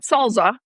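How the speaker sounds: "salsa" as a word to rule out; stressed "salsa"; rejected SALSA. Shown as a demonstration. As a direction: say "salsa" as the version that is wrong for lacking a Z. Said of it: "it would have a Z".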